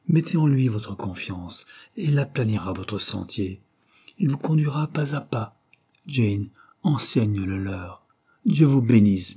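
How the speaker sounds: voix plus haute de mourant, solennelle; mourant qui bénit. Acted. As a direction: dernier adieu d'un père à ses enfants. Mourant bénit ses enfants. (père mourant, voix haute et grave d'adieu)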